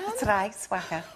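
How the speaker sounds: Scouse demo on request; playful Liverpool twang; Liverpool accent. Shown as a demonstration. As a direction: have a go at Scouse. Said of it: "Can you do the Liverpool accent?".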